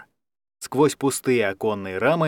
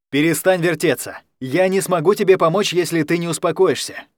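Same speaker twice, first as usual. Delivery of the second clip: urgent plea; 4 semitones higher, 3 dB louder than usual. Acted. Алекс urges Даня to stop.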